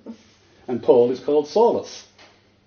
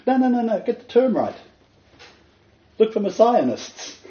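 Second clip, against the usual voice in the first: high, loud repeated no; emphatic correction; 10 semitones higher, 3 dB louder than usual. Real, not acted. Preacher correcting how people read Josephus, emphatic. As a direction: cut them off firmly.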